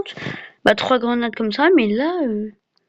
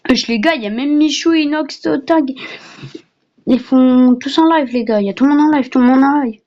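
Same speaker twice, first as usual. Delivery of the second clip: excited; 4 semitones higher, 4 dB louder than usual. Real, not acted. Thrilled streamers are there.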